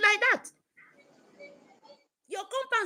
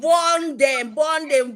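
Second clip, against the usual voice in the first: rallying shout; 6 dB louder, much slower than usual. Real, not acted. Rally cry against enemies.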